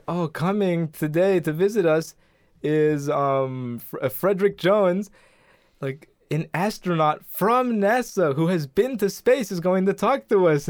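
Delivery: lightly voiced school announcer introducing a guest; presenter introduction. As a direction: lightly act out an assembly introduction. Teacher introduces guest in retold sketch.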